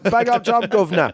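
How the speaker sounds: mock British accent. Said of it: "that accent is still so fun to me".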